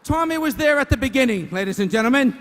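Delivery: booming comic emphasis; big punchline. Real, not acted. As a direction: hit the line hard for the laugh. Roaster punching the joke to crowd.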